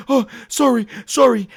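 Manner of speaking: small high-voiced mock apology. Acted hasty apology in retold scene.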